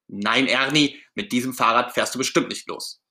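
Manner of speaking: understated firm refusal; stern Bert. Acted. Bert forbidding Ernie to ride that bike, mildly stern. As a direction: refuse with mild strictness. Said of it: "sagt Bert ganz streng".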